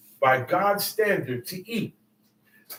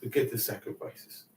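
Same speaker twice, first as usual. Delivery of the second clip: weary God; 5 semitones lower than usual. Retold or imitated. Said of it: "I said".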